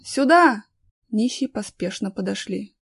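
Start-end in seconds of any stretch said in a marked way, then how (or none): 0.0-0.6 loud, high call to come over; acted shout to companions. A narrator's reading. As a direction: call the group over from a distance. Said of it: "закричал".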